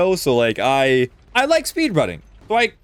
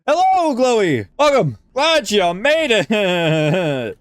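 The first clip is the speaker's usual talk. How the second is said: cheery greeting; 5 semitones higher, slower than usual. Real, not acted. Greeting a viewer warmly.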